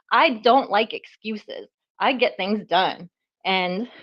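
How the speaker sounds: slow, winded words; out of breath, pausing. Real, not acted. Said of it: "I'm out of breath".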